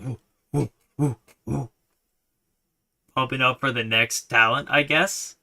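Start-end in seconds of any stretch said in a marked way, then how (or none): 0.5-1.7 rhythmic crowd woo-woo; woo chant. Retold or imitated. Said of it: "it was just them going".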